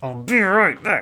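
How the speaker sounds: speaking through clenched, gritted teeth. Showing what to say to a partner who fears abandonment, through gritted teeth. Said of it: "do it through gritted teeth".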